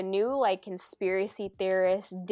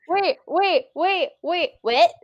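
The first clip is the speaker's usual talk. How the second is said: loud, higher disbelieving wait; surprised; 8 semitones higher, 7 dB louder, slower than usual. Real, not acted. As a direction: stop him in disbelief. Disbelief at friend's news.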